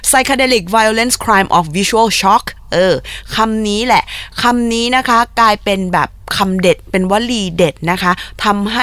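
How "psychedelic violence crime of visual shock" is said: slow, emphatic repeat of the slogan; slow emphatic slogan once more; repeated for emphasis. Shown as a demonstration. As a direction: hammer the slogan home, slowly. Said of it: "ย้ำอีกทีนะ".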